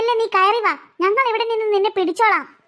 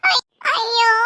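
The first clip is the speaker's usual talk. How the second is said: crying out; slower than usual. Acted. Child fell from tree.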